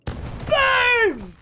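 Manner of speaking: high, drawn-out "boom"; imitated explosion boom. Real, not acted. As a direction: call out the blast playfully, falling away. Calls out the bomb going off.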